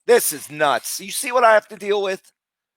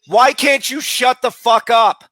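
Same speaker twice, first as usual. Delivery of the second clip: real shout, higher and louder; yelling; 4 semitones higher, 3 dB louder than usual. Real, not acted. Streamer yelling at rude players in voice chat, shouting. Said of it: "while I'm yelling at them".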